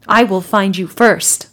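slow, loud menace; mock threat. Sergei threatening the hunter, slow and loud. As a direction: lean into it slowly.

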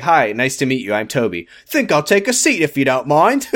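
lightly hammed fake British accent; polite mock-British introduction; Toby. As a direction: imitate a blatantly fake Brit. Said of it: "doing the most blatant, like, fake British accent".

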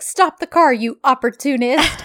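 mock-angry outburst starting high; lightly acted outraged accusation; indignant demand. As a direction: imitate an indignant passenger's order. Angry passenger's order, retold.

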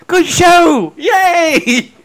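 high, loud imitation of his friend; hammed-up high cheer; mock cheering echo. Mimicking his friend's posh demo, mock cheering.

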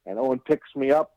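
ordinary delivery

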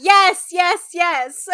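loud, eager, laughing yeses; squealing fangirl agreement; excited yes. Retold or imitated. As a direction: gush like a fan who wants it. Speaker's fangirl reaction.

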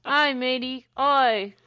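hammed-up Aussie croc hunter; Australian accent. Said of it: "That's how people in Australia talk".

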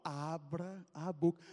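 slow, cold order; calm threat before the blow; a hint of a tough guy; menacing. Corró threatens with mud.

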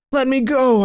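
high-pitched urgent cry. A narrator's reading. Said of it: "I cried".

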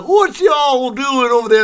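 high put-on Southern redneck voice; redneck drawl. Redneck in a truck hailing the fleeing girls, put-on Southern accent. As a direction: play a hick calling out from a truck. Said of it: "they're like".

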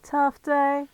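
put-on call girl Caramel. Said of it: "I can be Caramel".

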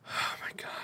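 breathy whisper of dismay. Real, not acted. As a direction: whisper it in disbelief. Reacting to bad pick.

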